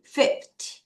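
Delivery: Fifty with strong FIF, faint ty; FIF-ty, ending barely voiced; weak ty. Shown as a demonstration. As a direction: hit FIF, nearly swallow ty. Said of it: "T를 약하게 읽어요".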